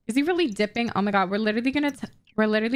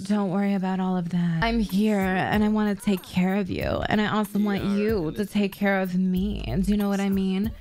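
a hint of a sultry purr, a touch lower; lightly voiced seductive woman; 3 semitones lower than usual. Player voicing her Sim to seduce Thorn, mildly sultry. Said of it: "she's just gonna be like".

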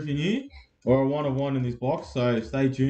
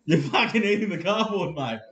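excited; 8 semitones higher than usual. Real, not acted. Excited at likes coming in.

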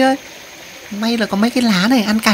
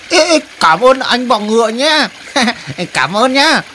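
grateful rescued spider. Acted. Spider praising the handsome mantis rescuer, giggly and grateful. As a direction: gush thanks in a raised little voice.

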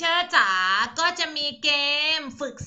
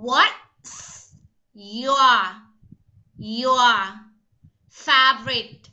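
slow, word by word with clear pauses; careful model reading; much slower than usual. Shown as a demonstration. Teacher tells pupils to listen carefully, slow word-by-word model reading. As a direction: dictate each English word separately and firmly. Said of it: "ตั้งใจฟังนะ".

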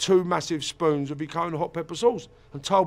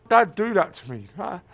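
raised, louder wounded protest; pitched-up hurt outcry; retold hurt questioning; 4 semitones higher, 3 dB louder than usual. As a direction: re-enact a child's tearful disbelief. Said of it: "I cried and I sobbed and I thought".

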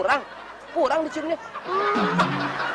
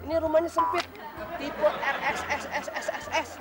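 cooing to a pet; 3 semitones lower, 5 dB louder than usual. Acted. Husband coos to his chicken.

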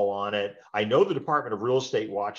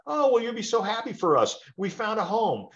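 higher, cheerful client with news; acted client, bright happy news; 11 semitones higher than usual. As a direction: play the delighted buyer. Client answers agent's call.

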